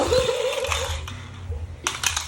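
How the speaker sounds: high laugh with little voice; breathy high laugh. Real, not acted. Amused by the child.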